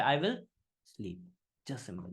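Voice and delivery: "I will", a beat, then "sleep"; pause after I will. Shown as a demonstration. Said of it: "ये अगर pauses नहीं लोगे".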